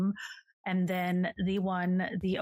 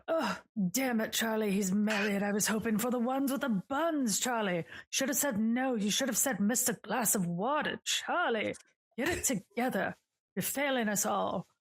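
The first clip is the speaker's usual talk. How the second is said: higher, whiny ghost scolding; Morty's voice; 4 semitones higher than usual. Acted. A ghost berates Charlie, higher and whiny. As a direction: nag Charlie like a fussy ghost.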